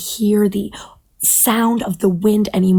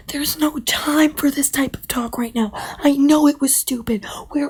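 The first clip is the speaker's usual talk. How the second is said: urgent panicky bird; 6 semitones higher than usual. Acted. Bird pleads urgently under attack.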